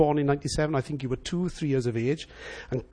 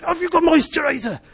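repeated request; 10 semitones higher than usual. Retold or imitated. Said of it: "I said".

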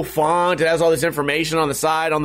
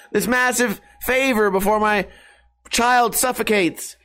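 higher, hammed-up panic; mock panicked friend; 6 semitones higher than usual. Imagined friend hammily panicking about a child locked in the cellar. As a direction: play a frantic parent in over-the-top distress. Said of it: "someone's gonna be like".

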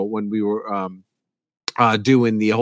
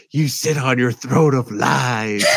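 slow accusing line; slower than usual. Retold or imitated. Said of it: "he's like".

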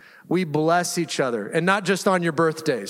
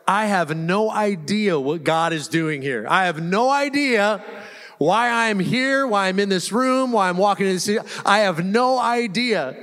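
voicing confusion. Voicing a lost believer's frustration.

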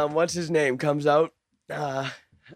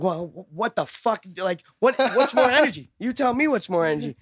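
higher-pitched exasperated actor retold; mock flipping out; 5 semitones higher than usual. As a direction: imitate an actor losing it at the director. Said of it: "flipping out".

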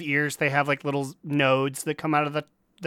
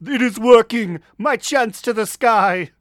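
triumphant exclaim; 6 semitones higher, 4 dB louder than usual. Retold or imitated. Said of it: "I'm like".

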